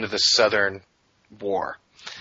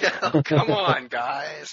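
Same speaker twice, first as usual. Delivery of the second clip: put-on Brooklyn accent; 4 semitones higher, much slower than usual. Still in the Brooklyn bit.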